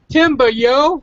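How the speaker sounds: mock Boston, dropping the r; joking Boston accent. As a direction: toss it off like a Bostonian. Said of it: "In Boston, it'd be".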